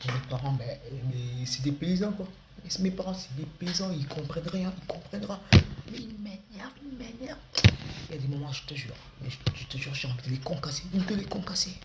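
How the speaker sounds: lightly voiced teenager ranting; a hint of teen whine rising in pitch; sulky teen rant. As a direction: grumble about clueless parents. Teen complaining about parents.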